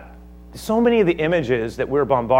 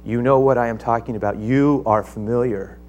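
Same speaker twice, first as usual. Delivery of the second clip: gentle appeal; 2 semitones lower than usual. Acted. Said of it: "he says".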